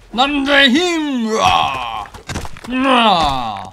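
hammed battle cry.

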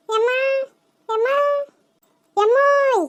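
sing-song call from outside the house; yelling for mother as she walks up. Acted. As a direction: call for mom from the doorway, stretched. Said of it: "கத்திக்கிட்டு தாண்டா வர்றா".

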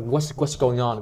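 "what's going on" run together as one; linked words. Shown as a demonstration. Teacher shows the sounds joining in "what's going on". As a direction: link "going" straight into "on". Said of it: "đọc nhanh thì nó sẽ tự nối âm vào".

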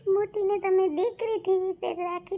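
breaking into a sob mid-complaint; words wet with real tears; crying. Real, not acted. Woman crying to the police officer about her daughter-in-law, sobbing.

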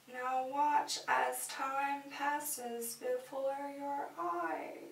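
slow, drawn-out hypnotic intoning; hypnotic guide. Pretend. Showing viewers time passing in sand, slow hypnotic voice. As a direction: intone it slowly and evenly, as if entrancing someone.

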